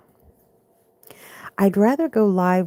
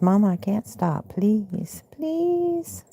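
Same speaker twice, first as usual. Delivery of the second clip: cat's voice; 3 semitones higher, much slower than usual. Pretend. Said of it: "He says".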